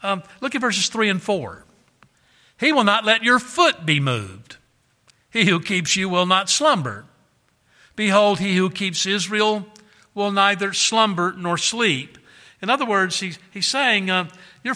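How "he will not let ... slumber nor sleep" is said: loud, declaiming Bible reading; scripture reading. Acted. Preacher reading scripture to his congregation, loud and declaiming. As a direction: proclaim the verses to the congregation. Reads psalm verses aloud.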